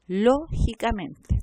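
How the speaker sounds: LÓGICAMENTE slow, stressed on LÓ and on MEN; double stress. Shown as a demonstration. Teacher shows two accented syllables, LÓ and MEN stressed in LÓGICAMENTE. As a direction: set LÓ apart, then stress MEN in LÓGICAMENTE. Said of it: "la primera que está acentuada".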